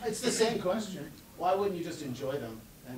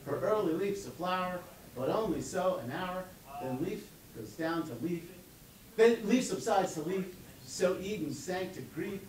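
measured, lyrical reading that slows at the end; poem recital. Acted. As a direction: read Frost aloud, savouring the music.

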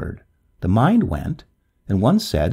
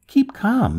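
called out; 12 semitones higher than usual. A narrator's reading. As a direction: shout it across to her. Young man soothes loudly.

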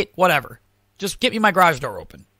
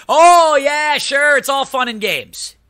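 higher, mock-cheerful jab; sarcastic; 7 semitones higher, 4 dB louder, slower than usual. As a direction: drip sarcasm about the money. Sarcastic retort about payment.

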